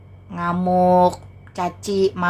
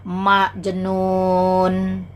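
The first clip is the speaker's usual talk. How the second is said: mocking laugh; much slower than usual. Mocking the Muslim viewers.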